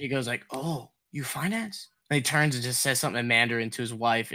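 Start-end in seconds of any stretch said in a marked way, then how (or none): 0.5-1.9 put-on Asian accent. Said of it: "I'm gonna abandon the accent".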